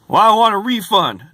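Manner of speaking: high, loud whiny demand; mocking the guest's refund demand. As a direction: pout it out like she's owed. Mimicking guest.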